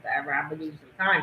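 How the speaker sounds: rushed, fast brush-off; quick dismissive quote. Retold or imitated. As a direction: rattle it off like he's done. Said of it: "She yelled at him".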